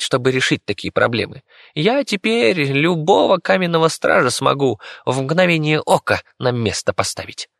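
high, cocky rodent voice; a tiny rat bragging about his victory; boastful squeaky rat. Acted. The rat boasts to the children about beating the monster, high cocky squeak.

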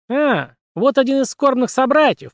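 high cartoon squeaky voice; Mickey Mouse squeak. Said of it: "пропищал странный, высокий, как у Микки Мауса".

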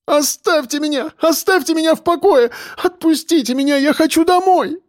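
hysterical. A narrator's reading. Girl to police, high hysterical begging. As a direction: break down begging.

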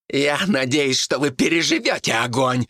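monk shouting a threat at the villagers; shouted out. A narrator's reading. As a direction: hurl the threat at them. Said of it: "выкрикнул Тасник".

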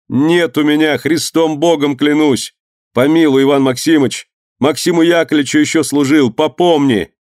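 high, urgent plea for mercy; pleading. Acted. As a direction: beg the master for mercy. Servant begs under the lash. (высокая мольба о пощаде)

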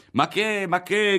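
high, loud dismissive cry; scoffing shout; shouted objection. A narrator's reading. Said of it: "gridavano altri".

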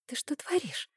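urgent hushed whisper; embarrassed whisper across the table. A narrator's reading. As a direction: hiss it under your breath so the neighbouring tables can't hear. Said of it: "прошептала я".

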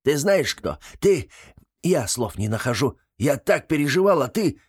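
high huffy indignation; indignant. Acted. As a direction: splutter at the betrayal. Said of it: "Гремлун возмущённо посмотрел".

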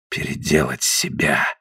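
low, soft, slow dull mutter. Acted. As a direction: mumble it, hollow and quiet. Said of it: "пробормотал он глухо".

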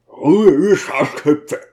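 shouting to the crowd. Acted. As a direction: yell it down to the street below. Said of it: "hinaus und rief".

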